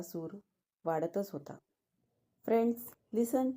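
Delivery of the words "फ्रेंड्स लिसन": raised, higher-pitched call for attention; almost shout it to a noisy crowd; near shout. A narrator's reading. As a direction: organiser calling over the crowd. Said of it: "आयोजक जवळपास ओरडलाच".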